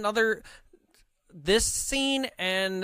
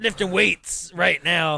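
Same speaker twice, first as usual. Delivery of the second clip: a put-on tough guy voice; 5 dB louder, slower than usual. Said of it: "a third impression where he's like".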